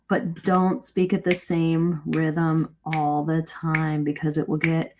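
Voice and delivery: slow, even plod at one steady rate; lulling, unvaried rhythm, as if putting listeners to sleep; monotonous slow pace. Shown as a demonstration. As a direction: drone along slowly without varying the speed. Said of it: "putting myself to sleep by speaking at the same rate".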